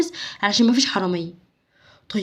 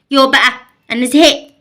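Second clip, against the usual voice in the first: fed-up whine; 2 semitones higher, 6 dB louder than usual. Acted. Child fed up.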